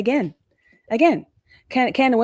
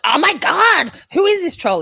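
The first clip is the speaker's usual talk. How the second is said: higher, louder, half-mock alarm; retold shock; 9 semitones higher, 6 dB louder than usual. Recalling first seeing Biffle in chat, high mock shock. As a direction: act out a startled first reaction. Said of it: "I was like".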